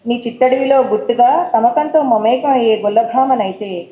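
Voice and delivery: flowing, unhurried lyrical reading; romantic poem recital. Acted. Poet reading her love poem on colours to the audience, lyrical recital. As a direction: read it like a love letter in verse.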